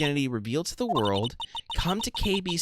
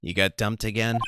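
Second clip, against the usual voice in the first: much higher and louder overexcited buddy; loud excitable goofball; 11 semitones higher, 4 dB louder than usual. Acted. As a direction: yell it like a thrilled old friend. Larry complains about women.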